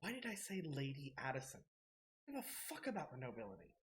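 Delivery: hushed, muttered, self-berating grumble. Narrating a scene, voice a woman muttering under her breath; muttering, berating herself. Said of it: "just kind of like re- berating herself".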